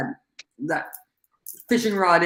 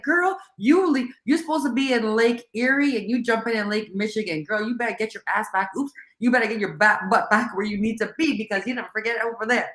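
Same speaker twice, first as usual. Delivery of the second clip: light Southern belle voice from a friend; imitating Janae's Southern accent; 3 semitones higher than usual. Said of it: "trying to speak like Janae".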